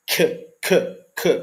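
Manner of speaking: bare "k" with a puff of breath; isolated breathy "k"; aspirated k. Shown as a demonstration. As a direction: blow out a little air on each "k". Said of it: "Tem que ter uma aspiraçãozinha".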